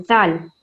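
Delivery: जाल soft, tongue between the teeth; soft dhal sound. Shown as a demonstration. Teacher demonstrating the letter to children, soft. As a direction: breathe जाल out gently. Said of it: "बिल्कुल ही soft आवाज़ आनी चाहिए".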